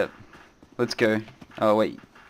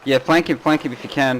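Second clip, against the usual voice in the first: raised urgent voice; urgent callout; 4 semitones higher, 4 dB louder than usual. Real, not acted. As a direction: push the teammate to flank. Urging teammate mid-fight.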